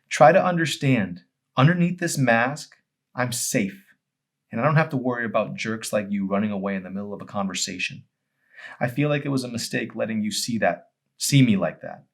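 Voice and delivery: voiced as Emery, raw and exposed; pleading explanation. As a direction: beg him to understand.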